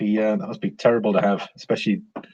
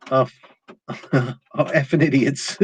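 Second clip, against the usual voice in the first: laughing; 2 semitones higher than usual. Real, not acted. Reading a rude chat comment.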